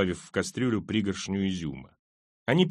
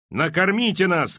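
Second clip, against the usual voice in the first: high, raised demand; woman's cry; 7 semitones higher, 4 dB louder than usual. A narrator's reading. Hungry woman shouts at the guards for food, high cry. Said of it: "крикнула женщина".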